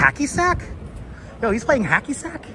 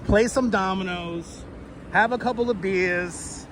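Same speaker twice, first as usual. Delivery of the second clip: lightly put-on Puerto Rican Bronx accent. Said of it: "If I did a tour with that voice".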